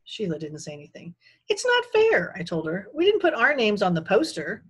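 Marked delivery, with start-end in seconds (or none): 1.5-2.4 put-on high, loud kid's protest; indignant protest. A narrator's reading. Protesting to Sheila. 2.9-4.6 loud, higher-pitched complaint; indignant protest. A narrator's reading. Protesting to Sheila.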